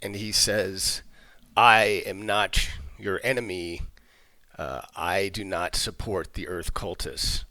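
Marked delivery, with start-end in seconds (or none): 1.6-7.4 slow, low undead lich voice; a deep, dragged-out tomb voice; ancient rasping undead king. Acted. Lich dismisses the party.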